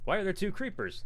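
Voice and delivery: retold disbelief. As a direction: replay the panic at half strength. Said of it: "they're like".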